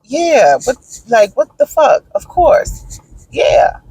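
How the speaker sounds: imitating a scoffing, of-course reply; mock indignation, voice rising; as if the question were insulting; sarcastic. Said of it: "like, sarcastically".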